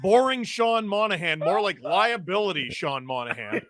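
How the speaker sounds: lightly hammed-up scornful commentator; mock rant, leaning on each accusation; Sid Seixeiro. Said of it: "Can you do your Sid Seixeiro impression?".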